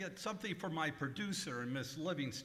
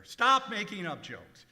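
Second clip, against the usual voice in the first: irritated scolding; 3 semitones higher, 6 dB louder than usual. Acted. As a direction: lecture him with irritation. Boss scolding valet.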